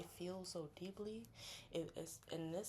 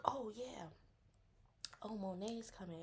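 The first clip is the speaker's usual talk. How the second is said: whispered reveal; whispered news; 4 semitones higher than usual. Retold or imitated. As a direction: drop the name in a whisper. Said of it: "And then you like".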